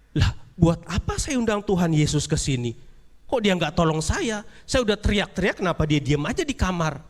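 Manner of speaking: high, indignant whine of a beaten host; complaining rich man. Acted. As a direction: grumble like you were let down.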